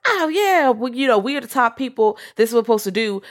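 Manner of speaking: high, lofty mock-superior voice; lightly voiced arrogant Lilith; haughty vampire leader. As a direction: play a smug vampire elder. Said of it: "Lilith's like".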